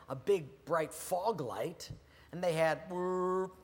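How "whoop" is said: hooting fog horn noise; imitated fog horn. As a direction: mouth a ship's horn whoop. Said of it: "the fog horn".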